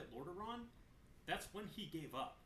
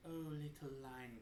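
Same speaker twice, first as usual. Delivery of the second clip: teasing; 3 semitones lower than usual. Retold or imitated. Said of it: "kinda, like, teasing everybody".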